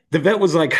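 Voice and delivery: choking up, voice breaking; voice cracking. Real, not acted. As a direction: fight back tears. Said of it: "I'm gonna cry".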